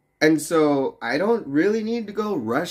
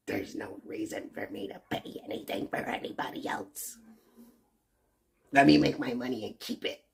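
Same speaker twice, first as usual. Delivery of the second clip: selfish rich guy voice; 8 dB quieter than usual. Retold or imitated. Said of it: "It's coming from somebody that".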